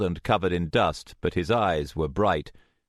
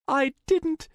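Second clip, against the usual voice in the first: high, horrified little voice; stunned, frightened denial; shocked stammer. A narrator's reading. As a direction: falter in high-pitched shock. Shocked after wounding her friend.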